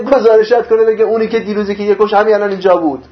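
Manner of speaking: exasperated questioning, voiced for another; acted reproach. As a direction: take someone to task in a retold quote. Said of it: "گفت".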